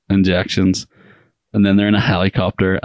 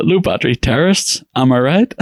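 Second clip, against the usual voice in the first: higher, punchy comedian delivery; standup comic; 6 semitones higher than usual. Pretend. Host reading his joke as a standup comic, higher. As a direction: sell it like a club comic's joke. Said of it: "Here's what I wrote".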